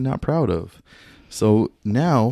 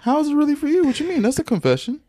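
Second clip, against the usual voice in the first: high indignant protest; 4 dB louder than usual. Real, not acted. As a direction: push back in disbelief. Indignant reply.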